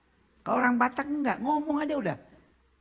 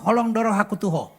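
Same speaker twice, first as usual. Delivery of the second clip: blunt Batak way. Shown as a demonstration. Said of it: "Orang Batak kalau ngomong".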